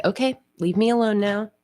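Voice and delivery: mock-annoyed pet's inner voice; lightly voiced grumpy cat. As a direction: brush off the fuss as the cat. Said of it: "She's like".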